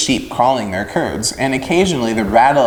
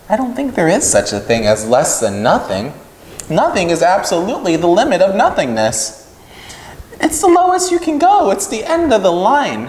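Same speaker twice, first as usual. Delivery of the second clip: higher, eager piglet working it through; a little pig earnestly arguing logic; earnest young pig; 6 semitones higher than usual. Acted. Wilbur reasoning with the lamb, earnest and high.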